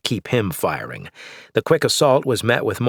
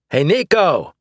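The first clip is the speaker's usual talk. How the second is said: higher, louder taunting call; yelling; 8 semitones higher, 4 dB louder than usual. Acted. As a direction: call out across the room. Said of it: "I yelled".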